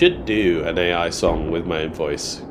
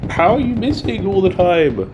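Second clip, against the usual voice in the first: frustrated yell; 13 semitones higher, 5 dB louder than usual. Real, not acted. Frustrated at teammates missing.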